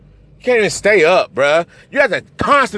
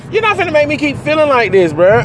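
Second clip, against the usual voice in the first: much higher and fast, fed up; a sudden furious burst at him; angry outburst; 12 semitones higher, 4 dB louder than usual. Real, not acted. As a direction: snap back at him, done with it.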